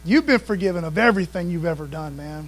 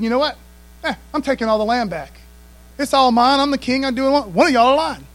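imperious king; 4 semitones higher, 4 dB louder than usual. Retold or imitated. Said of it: "Or it could have been".

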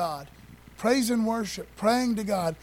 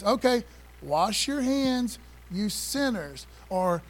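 higher, slow, emphatic preacher's rebuke of sinners; stern James rebuke; 4 semitones higher, slower than usual. Retold or imitated. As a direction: lay down the law like the apostle, slowly.

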